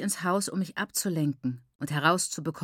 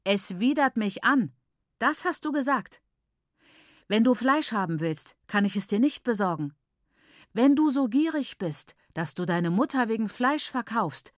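mildly angry mother; 3 semitones higher than usual. Acted. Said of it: "Aber meine Mutter war immer noch wütend".

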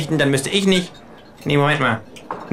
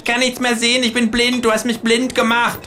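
mock panic; 6 semitones higher than usual. A narrator's reading. Kangaroo wailing it is blinded.

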